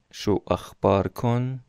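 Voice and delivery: شو اخبار کن, every syllable spaced, "kon" stressed; slow plural. Shown as a demonstration. Teacher repeating the plural form slowly for students.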